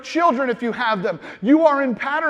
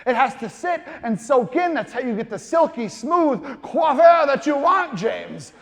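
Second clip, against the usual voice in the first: friend lecturing. Retold or imitated. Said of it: "He said".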